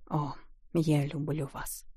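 slow, soft, barely audible; whispered confession. A narrator's reading. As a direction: breathe it into her hair. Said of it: "он чуть слышно прошептал ей в волосы".

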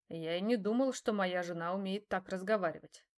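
normal talking voice

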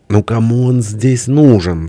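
high, drawn-out wail; wailing lament. A narrator's reading. Friend of nations on the missing poet, wailing. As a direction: stretch the question into a lament. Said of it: "снова заголосил друг народов".

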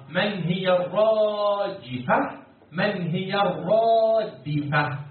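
slow question with the key word stretched out; recitation-style questioning. Shown as a demonstration. Teacher quizzing students on the verse's words, drawn-out chanting. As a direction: hold the long vowel as in recitation.

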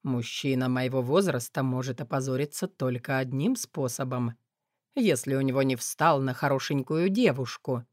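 low arrogant male voice; haughty. A narrator's reading. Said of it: "надменно заявил красавчик".

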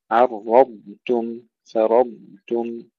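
very slow عرضتم، فرضتم, heavy راء and stretched ضاد; deliberate عرضتم، فرضتم with thick راء and lengthened ضاد; heavy ra, long dad. Shown as a demonstration. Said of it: "ننتبه إلى تفخيم الراء أولًا".

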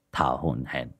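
ordinary delivery, nothing marked

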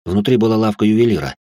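ordinary delivery

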